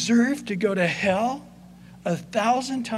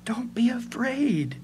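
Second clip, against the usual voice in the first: gentle whisper; 3 semitones higher than usual. Acted. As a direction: whisper it slowly to frightened brothers. Joseph comforts his brothers.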